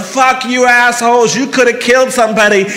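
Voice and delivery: imitating an angry motorist shouting; mock driver yell. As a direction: bark it like a furious driver. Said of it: "They're yelling".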